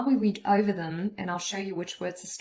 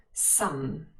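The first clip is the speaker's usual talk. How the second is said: "Some" in its full form, stressed; 2 semitones lower than usual. Shown as a demonstration. Teacher repeats the full form for learners, stressed. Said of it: "It's the full form".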